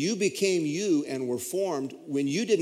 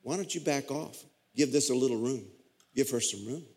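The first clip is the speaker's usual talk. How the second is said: gentle reassuring God; 4 dB quieter than usual. Retold or imitated. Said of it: "God the Father saying".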